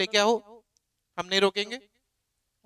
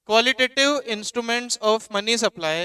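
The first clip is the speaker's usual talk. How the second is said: slow dictation; much slower than usual. Shown as a demonstration. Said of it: "heading लगानी है".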